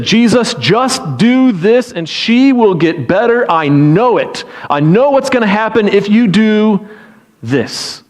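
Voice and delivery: insistent, drawn-out plea of conviction; emphatic, confident appeal; absolute faith. Acted. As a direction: urge it slowly, utterly sure. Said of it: "there is no doubt".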